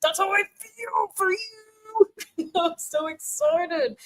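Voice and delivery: slow, high, voice breaking with emotion; choked up and moved; tearful. Real, not acted. Streamer moved by a viewer's words, slow and tearful.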